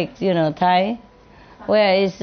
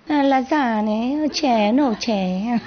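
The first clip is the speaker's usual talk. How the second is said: mock Italian; slower than usual. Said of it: "Italian girls also speak very sweetly".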